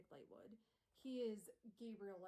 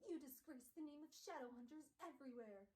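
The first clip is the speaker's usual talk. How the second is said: Gabriel Lightwood; 4 semitones higher than usual. Acted. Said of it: "Gabriel turns to Will and is like".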